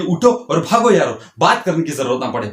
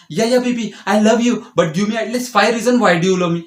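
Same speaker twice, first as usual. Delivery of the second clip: mock pleading reply; 4 semitones higher, much slower than usual. Mocking boyfriend's reply.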